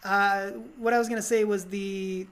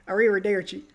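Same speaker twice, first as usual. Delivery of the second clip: lightly mocked attempt at Italian; badly faked Italian farewell; a hint of fumbled Italian accent; faster than usual. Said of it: "when he's trying to be Italian".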